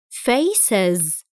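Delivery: faces ending in an iz syllable. Shown as a demonstration. Teacher shows pupils the es plural ending, faces with iz. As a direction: end faces with iz. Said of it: "نلاحظ أنها تنطق is".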